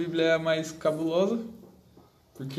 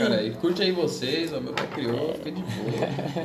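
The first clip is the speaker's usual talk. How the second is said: cool-guy Jesus; 2 semitones higher, 5 dB louder than usual. Pretend. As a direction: play Jesus as a chill guy. Jesus voiced as cool dude.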